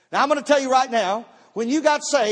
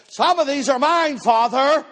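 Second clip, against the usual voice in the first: lightly voiced heavenly call, a bit higher; a hint of a proclaiming divine voice; voice from above; 4 semitones higher, 3 dB louder, slower than usual. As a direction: call out solemnly to the Father. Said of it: "this voice comes along and says".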